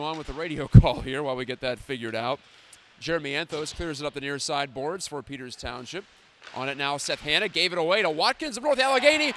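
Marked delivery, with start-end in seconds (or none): 3.0-9.3 hockey play-by-play. Acted.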